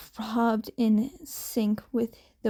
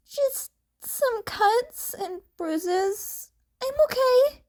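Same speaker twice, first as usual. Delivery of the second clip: Izuku reassuring; 12 semitones higher than usual. Acted.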